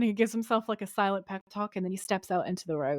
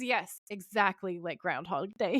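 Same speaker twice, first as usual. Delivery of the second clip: so done; 4 dB quieter than usual. Retold or imitated. Sam confirms the time loop to Dean, so done. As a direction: imitate someone completely fed up, stretching the words. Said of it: "He's so fucking done".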